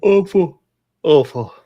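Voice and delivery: loud, high repeated "awful"; emphatic disgust. Real, not acted. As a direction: groan it out in disgust. Repeating disgust at bad line.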